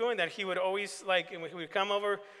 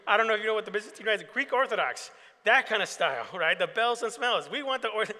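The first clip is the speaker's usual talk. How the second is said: excited; 4 semitones higher, 6 dB louder than usual. Real, not acted. Pastor exclaims about the request.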